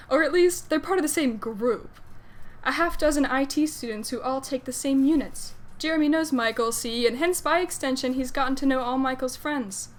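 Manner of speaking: casual fan fiction narration; story narration. A narrator's reading. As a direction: read the story out to an audience.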